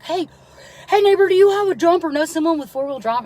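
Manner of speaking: imitating the neighbor. New neighbor asking for a jump.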